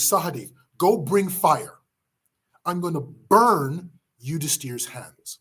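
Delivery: a touch of contained anger, unhurried; a stern order without raising the voice; slow, stern command. Acted. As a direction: lay down the order slowly and firmly. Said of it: "Bhima shouts at Sahadev".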